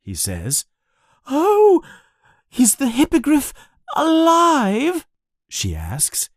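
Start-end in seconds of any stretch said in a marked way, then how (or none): 1.3-5.1 high, louder, eager gasp of a question. A narrator's reading. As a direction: pounce on it with hungry excitement. Eager seer asks about hippogriff.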